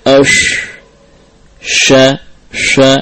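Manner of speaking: "ash, sha, sha" with whistling on each SH; wrongly whistled. Shown as a demonstration. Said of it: "bukan ash". ("ash, sha, sha" disertai sofir)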